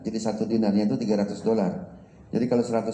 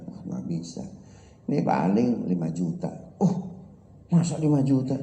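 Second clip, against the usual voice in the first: haggling buyer; 5 semitones lower than usual. Acted. Haggling buyer voiced in story.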